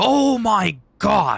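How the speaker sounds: full-lung yell, very loud and high. Demonstrating a microphone setting, the speaker yells at the top of their lungs. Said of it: "I just yelled practically at the top of my lungs".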